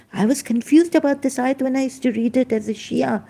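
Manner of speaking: pouring out her upset, voice climbing; emotional outburst. Real, not acted. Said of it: "Sorry, I get emotional".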